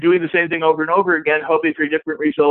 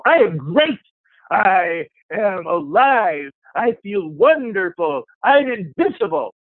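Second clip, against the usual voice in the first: slow, higher, fired-up declaration; emotionalized affirmation; 4 semitones higher, slower than usual. Shown as a demonstration. Coach shows an affirmation said with feeling, fired-up. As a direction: proclaim it like you believe it. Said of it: "You want to emotionalize these".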